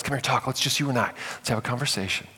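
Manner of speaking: soft, coaxing serpent voice; mock whisper. Enemy whispering to us, softly coaxing. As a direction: draw us in quietly. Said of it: "he just whispers at us".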